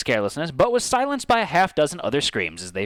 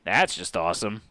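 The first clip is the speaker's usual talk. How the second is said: sarcastic mutter; 4 semitones lower than usual. Acted. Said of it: "Zeke muttered sarcastically".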